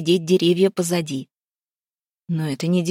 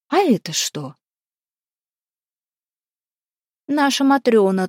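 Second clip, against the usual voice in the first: echoing ethereal energy being; 4 semitones higher, 3 dB louder than usual. A narrator's reading. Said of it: "тихим и притом гулким голосом".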